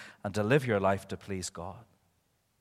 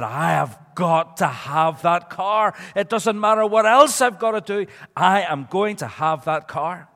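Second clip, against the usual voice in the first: Mister Toad; 5 semitones higher, 8 dB louder than usual. Acted. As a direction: insist word by word, raised and loud. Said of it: "Well, Mister Toad said".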